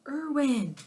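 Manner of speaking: loud group shout of the name; crowd yell. A narrator's reading. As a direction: shout it out together. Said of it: "We all yelled".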